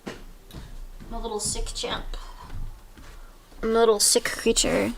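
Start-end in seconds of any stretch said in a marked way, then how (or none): 0.1-2.2 slow, soft whisper. Real, not acted. Sick streamer whispering to chat, slow and soft. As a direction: breathe it out slowly to chat.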